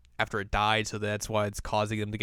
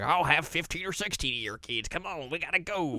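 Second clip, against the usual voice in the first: higher-pitched put-on old lady voice; 6 semitones higher, 3 dB quieter than usual. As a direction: play an eager old lady urging him along. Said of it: "an old lady's like".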